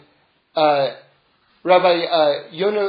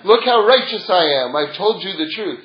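smug mock boast; 4 dB louder than usual. Mocking self-satisfied truth teller.

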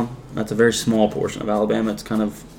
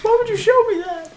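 high, shrieking disgust; disgusted laughter. Real, not acted. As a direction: recoil from a gross clip. Reacting to a gross video.

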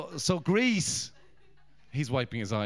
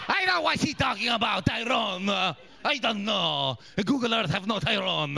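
verbaasde googelaar; 3 semitones higher than usual. Retold or imitated. Voicing the man googling Tyrone.

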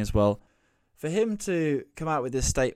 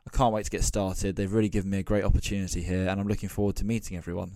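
trotted-out PR line; 3 semitones lower, 3 dB quieter, faster than usual. Retold or imitated. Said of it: "trot out some, like, generic language".

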